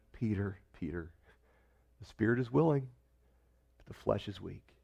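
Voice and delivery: very soft, low, gentle "Peter, Peter"; tender rebuke. Acted. Jesus silently speaking to Peter, soft and tender. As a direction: say it softly like a sorrowful friend.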